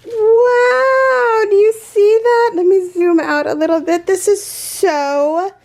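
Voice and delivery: high, overwhelmed, near-crying gush; tearful awe. Real, not acted. Crafter showing viewers a gifted granny square, tearful awe. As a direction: gush as happy tears well up. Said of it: "I'm totally gonna start crying".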